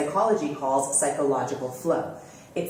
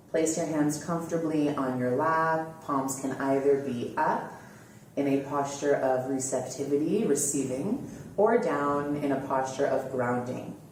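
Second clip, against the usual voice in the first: slightly lowered, easing into a calm guiding voice; guided meditation; 3 semitones lower, 3 dB quieter than usual. Acted. Host settling listeners into posture and relaxing, calm guided meditation. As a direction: gently lead listeners into relaxation.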